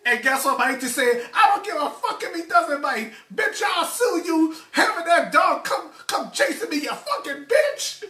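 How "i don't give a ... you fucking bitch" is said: imitated furious cursing. Auntie cursing out the dog owner, hammed-up high fury. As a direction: tear into her like the angry auntie.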